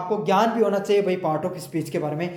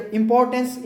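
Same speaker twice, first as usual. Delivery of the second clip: इंपॉर्टेंस with a higher, heavier इंपोर्ट and a lighter एंस; stress on इंपोर्ट; 5 semitones higher, 3 dB louder than usual. Shown as a demonstration. Teacher shows students word stress, इंपॉर्टेंस stressed on इंपोर्ट. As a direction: lean on the इंपोर्ट part of इंपॉर्टेंस, ease off एंस. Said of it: "इंपोर्ट पे ज़्यादा जोर दिया".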